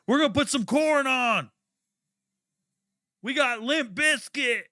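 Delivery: high goofy mock of the locker-room guys; mocking white teammates. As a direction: parrot the teammates in a high silly voice. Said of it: "repeats teammates' line mockingly".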